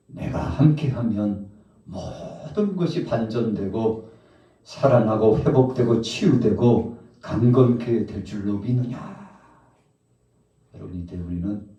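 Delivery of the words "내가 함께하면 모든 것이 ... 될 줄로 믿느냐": rousing, forceful sermon delivery; fervent preaching. Acted. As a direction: build the promises into a challenge. Preacher rallies the congregation. (힘차게 선포하는 설교)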